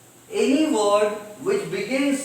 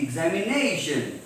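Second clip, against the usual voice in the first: "examination" with a long, raised NA; stressed syllable before -tion; 3 semitones lower than usual. Shown as a demonstration. Teacher giving an example sentence, stress on NA in "examination". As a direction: lean into NA in "examination". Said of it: "be pronounced loudly".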